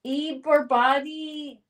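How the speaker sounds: slow, drawn-out attempt at an Arnold accent; Arnold's accent. Reading a viewer's Arnold line aloud, attempted Arnold accent. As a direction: stretch it out in a rough Arnold accent. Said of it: "Arnold says".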